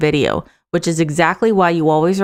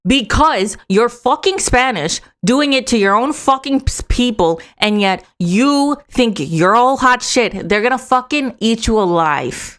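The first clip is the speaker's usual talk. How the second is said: angry rant; 4 semitones higher than usual. Real, not acted. Host berating the agent for turning on his own people, angry. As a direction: lay into him with mounting outrage.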